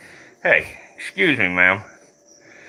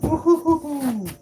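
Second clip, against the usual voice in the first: whoop; 13 semitones higher than usual. Real, not acted. Cheering excitedly.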